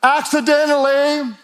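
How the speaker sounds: lightly mocking a drifting runner, laughing through it; mock aimless Paul. Preacher mocking a misquote of Paul, half laughing. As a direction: poke fun at the lazy version. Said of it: "He doesn't say".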